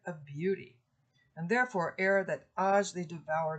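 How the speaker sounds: measured Middle English verse reading, slightly dramatic; poem reading. Acted. Lecturer reading Pandarus' plea to the class. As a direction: read the old verse with feeling. Reads Chaucer aloud.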